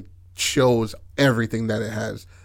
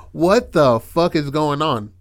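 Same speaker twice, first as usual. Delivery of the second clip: mock bewilderment; 3 semitones higher, slower than usual. Panicked onlookers in the story.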